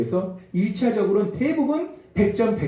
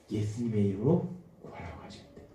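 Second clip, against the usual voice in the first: soft, low reminder; 나직한 성령의 음성; 11 semitones lower, 11 dB quieter than usual. Acted. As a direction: drop to a low, quiet voice, as a gentle prompting. Spirit's reminder voiced softly. (낮고 조용하게)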